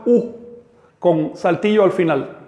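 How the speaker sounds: "U" cut off with a glottal stop at the end; glottal stop demo. Shown as a demonstration. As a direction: end the U with a sharp catch. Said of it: "El sonido más parecido". (U con saltillo, cortada en seco al final)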